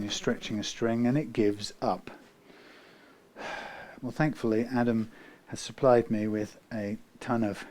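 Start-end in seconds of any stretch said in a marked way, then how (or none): none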